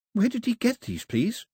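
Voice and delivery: breathless, pitched high with astonishment; can barely get the words out; astonished gasp. A narrator's reading. Daphne staring at the toy, breathless with astonishment. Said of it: "too astonished to draw breath".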